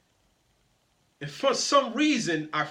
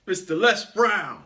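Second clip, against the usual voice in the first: louder, lightly imitated powerful captain; Les Brown; 5 dB louder than usual. Captain naming himself to his passengers, loud imitated powerful voice. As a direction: announce the name like a motivational speaker as pilot. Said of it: "in my Les Brown voice".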